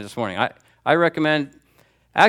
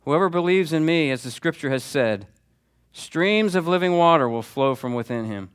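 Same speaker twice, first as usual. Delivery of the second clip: proclaiming loudly; 4 semitones higher than usual. Retold or imitated. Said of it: "He says in a loud voice".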